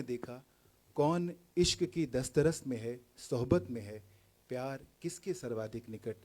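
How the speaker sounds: declaimed verse, openings lifted and endings sinking; poetry recital. Acted. Poet asking who has seen love closest, poetry recital. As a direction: recite it phrase by phrase, building on repeated lines. Recites second poem, Darakht.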